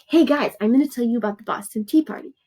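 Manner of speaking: quick, lively casual announcer to friends; mock chatty introduction, fast and bright; chatty hey-guys voice. Shown as a demonstration. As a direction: play a breezy vlogger greeting the class. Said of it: "So you're like".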